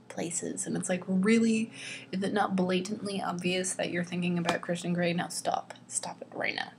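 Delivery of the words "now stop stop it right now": a hushed, unvoiced stop-it; whispered scolding. Reviewer hushing the heroine about Christian Grey, whispered scolding. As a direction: whisper it like telling off a daydreamer. Scolding Anastasia's obvious daydreams.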